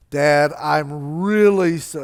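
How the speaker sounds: slow, over-earnest "really"; slow, mock-heartfelt rehearsal; corny apology. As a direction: ham up a corny apology, drawn out. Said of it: "oh, that sounds corny".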